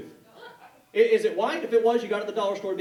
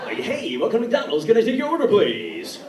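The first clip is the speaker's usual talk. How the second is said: drive-thru worker; 5 dB louder than usual. Retold or imitated. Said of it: "drive-thru at McDonald's".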